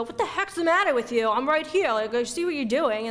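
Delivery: hammed-up snap at a partner; mock jealous outburst. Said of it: "you go".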